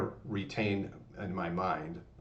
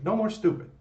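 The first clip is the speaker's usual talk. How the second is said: much higher, louder punchy No more stupid; quick high shouted No more stupid; pre-roll catchphrase; 14 semitones higher, 6 dB louder than usual. Retold or imitated. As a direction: fire off the channel catchphrase. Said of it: "You see that at the pre-roll".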